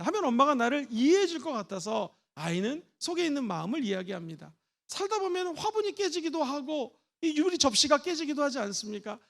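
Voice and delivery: ordinary talk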